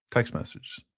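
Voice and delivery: breathy whisper for emphasis. Real, not acted. Host hushes the words to stress the evidence, whispered. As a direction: drop to a hushed, voiceless whisper.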